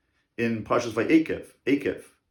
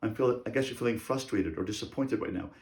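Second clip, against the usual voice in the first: gentle parent naming feelings; 4 dB quieter than usual. Shown as a demonstration. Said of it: "You name the feeling".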